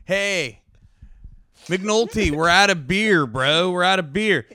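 loud party-bro call; frat bro. Retold or imitated. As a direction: yell it like a college bro at a party. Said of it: "that's frat boy energy".

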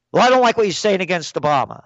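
retold confrontational complaint; bar-fight challenger. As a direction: imitate a bar patron picking an argument. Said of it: "almost got in a fight one day in a bar".

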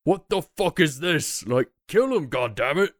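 high-pitched mock yell of a guard, no real volume; mock scream. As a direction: act out a startled guard screaming out, held back in volume. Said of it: "one of the guards begin to scream out".

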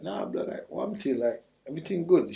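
quiet, half-whispered brush-off; dismissive brush-off. Retold or imitated. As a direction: wave him off softly, almost under the breath. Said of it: "she's like".

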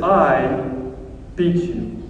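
low, quiet mock devil gloating, lightly voiced; a hint of the devil's quiet triumph. Devil taunting the sinner in a quiet low gloat. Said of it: "he says".

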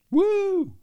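high hammed-up whoop; mock whoop. Host mocks a daredevil's cheer, high whooping. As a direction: let out a silly high whoop.

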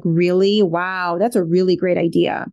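mock-impressed, dripping sarcasm; a light sarcastic jab at a teen son. Shown as a demonstration. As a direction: praise the idea while plainly mocking it. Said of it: "that looks something like this".

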